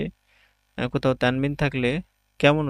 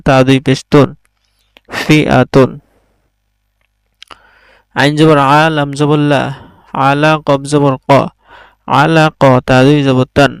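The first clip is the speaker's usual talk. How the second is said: loud, measured letter-by-letter recitation; Quran-class spelling drill, projected and even; 9 dB louder, slower than usual. Shown as a demonstration. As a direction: sound out each syllable firmly for learners. Teacher drills Arabic spelling aloud.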